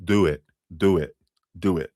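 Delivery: repeated catchphrase, lightly New Jersey; movie line in New Jersey accent. Retold or imitated. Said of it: "it is from a movie".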